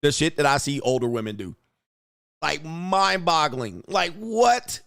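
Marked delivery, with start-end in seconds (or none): 2.4-4.8 disbelief. Real, not acted. Disbelief at older women's choices.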